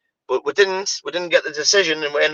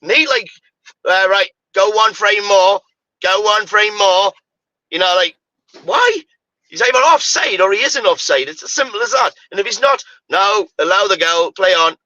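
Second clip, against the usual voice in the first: frustrated; 5 semitones higher, 3 dB louder than usual. Real, not acted. Frustrated VAR rant.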